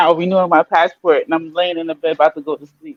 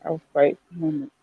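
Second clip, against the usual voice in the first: Jamaican patois; 5 semitones lower, 10 dB quieter, faster than usual. Shown as a demonstration. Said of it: "how do I say that in, um, patois".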